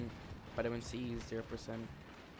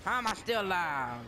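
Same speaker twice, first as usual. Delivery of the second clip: excited shout; 9 semitones higher, 4 dB louder than usual. Real, not acted. Gaming excitement.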